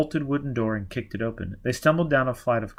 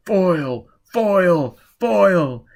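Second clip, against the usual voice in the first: much higher, loud repeated calls; soldiers shouting; 7 semitones higher, 8 dB louder, slower than usual. Acted. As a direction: hunters calling him out.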